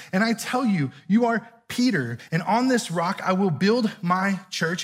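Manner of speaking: measured, solemn Bible reading; scripture reading. Acted. Pastor reading Matthew to his congregation, solemn scripture reading. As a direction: read the passage as holy words. Reads the Gospel passage aloud.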